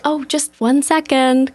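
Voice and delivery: light, polite hostess voice; a touch sweet and unhurried. Retold or imitated. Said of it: "Very nice, very polite".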